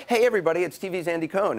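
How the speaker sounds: a light mock of a chirpy host hello; imitating Andy's greeting. Anderson mimicking Andy greeting flight passengers, lightly hammed. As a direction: wave to the plane like a celebrity. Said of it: "He'll be like".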